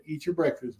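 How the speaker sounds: softly retold kind reassurance; very kindly. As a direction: gently imitate a kind host, a little hushed. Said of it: "very kindly".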